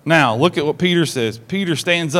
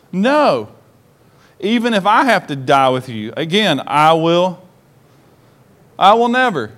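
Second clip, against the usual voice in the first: emphatic refusal; 2 semitones higher than usual. Acted. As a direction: swear it, refusing to back down. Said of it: "Peter telling Jesus".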